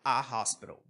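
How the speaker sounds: "a hospital" com H aspirado; a hospital em inglês. Shown as a demonstration. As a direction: diga "a hospital" soprando o H. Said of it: "O H tem som de r". (H aspirado em inglês)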